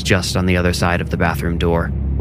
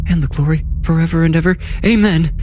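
much higher, fast desperate cry; 9 semitones higher, faster than usual. A narrator's reading. Wife cries out the end of the prayer, desperate high cry. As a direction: fling the last words out. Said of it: "Arlene cried out the final line".

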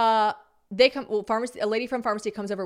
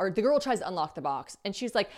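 ordinary talk

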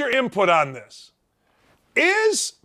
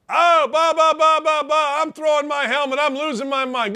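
mocking a furious player; 6 semitones higher than usual. Host mocking a player raging at his coach, mock tantrum. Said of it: "And he was mad".

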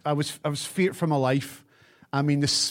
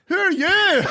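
laughing mock confusion; slower than usual. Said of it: "And you went".

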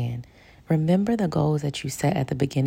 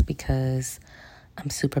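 whispering; 5 dB quieter than usual. Real, not acted. Whispering so kids stay asleep.

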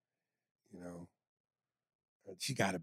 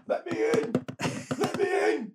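high, loud cry to be let in; pestering emailer; 5 dB louder than usual. Acted. Host mocking a fan who resends emails, high insistent cry. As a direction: cry it high, pleading twice over.

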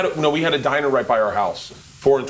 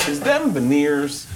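put-on Brooklyn accent; 3 semitones higher, much slower than usual. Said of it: "That's the voice".

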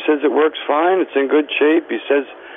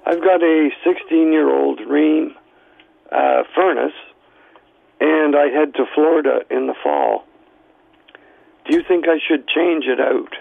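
losing voice. Real, not acted. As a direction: speak with a voice that's nearly gone. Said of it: "I'm losing my voice".

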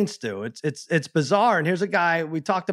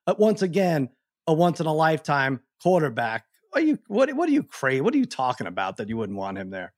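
can't believe what he's hearing; incredulous rant. Retold or imitated. Retold rant at co-host, rising.

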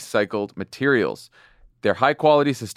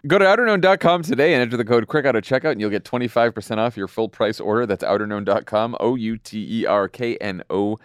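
ad read. Acted. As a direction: sell it like a podcast host reading an ad. Podcast ad read.

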